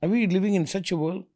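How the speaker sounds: can't believe what he's hearing; incredulous. Retold or imitated. Told not to greet children, asking in high disbelief. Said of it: "I'm like".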